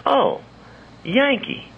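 high, imitated Texas lady's drawl. Texas lady labelling her helper a Yankee, imitated drawl. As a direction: mimic her drawl, pitched right up on "Yankee". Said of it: "gone is the drawl, the Texas drawl".

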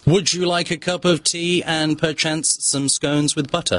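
slow, proper British accent. Shown as a demonstration. Guest gives hosts a model tea sentence, very British accent. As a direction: lay on a British accent, slowly. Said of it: "pull off this British thing".

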